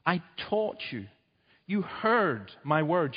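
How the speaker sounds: slow, solemn divine voice, lightly done; a hint of a grave, slow God. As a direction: speak as God reproaching his people, slowly. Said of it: "and God says".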